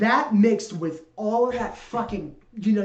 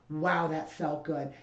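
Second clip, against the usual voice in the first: satisfied thought; 2 semitones lower, 6 dB quieter, slower than usual. Retold or imitated. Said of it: "All he could think in his head is".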